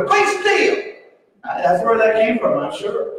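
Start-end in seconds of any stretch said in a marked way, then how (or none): 0.0-0.8 put-on high shouted Georgia-accented "Be still!"; "Be still!" drawn out like a Georgia preacher, shouted high. Preacher shows how Georgians say it, shouted Georgia-accented "Be still!". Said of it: "like they say in Georgia".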